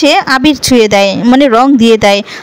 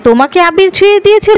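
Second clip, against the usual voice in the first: higher, startled asking; a retold shocked question, pitched up; surprised question; 5 semitones higher than usual. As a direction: gasp it out in disbelief. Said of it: "কথাটা শুনে অবাক হয়ে যায়".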